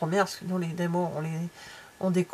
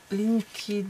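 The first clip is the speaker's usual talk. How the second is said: English words in a French accent; halting English with French pronunciation; unpractised English accent; 3 semitones higher, much slower than usual. Real, not acted. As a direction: attempt the English title with a strong French accent. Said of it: "mon accent anglais".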